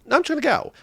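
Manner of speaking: mock driver. Driver cuts around at green light.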